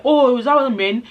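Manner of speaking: mildly acted penny-drop moment; sudden realization. Newcomer finally understanding the lady's question, acted sudden realization.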